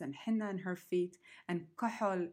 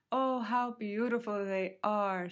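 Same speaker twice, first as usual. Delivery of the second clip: cried out; 3 semitones higher, 5 dB louder than usual. Acted. Little bird delighted at finding scarves, crying out. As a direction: gush over the scarves. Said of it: "she cried out".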